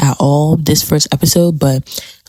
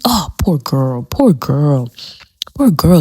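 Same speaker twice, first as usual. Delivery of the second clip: pitying whisper; slower than usual. Real, not acted. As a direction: whisper it in pity. Sympathy for Lydia.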